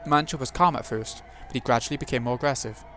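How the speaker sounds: story narration. A narrator's reading. Narrator reads game text.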